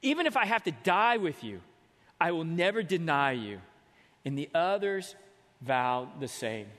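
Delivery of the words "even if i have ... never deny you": emphatic denial. Acted. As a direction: insist it hard, like Peter. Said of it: "he says emphatically".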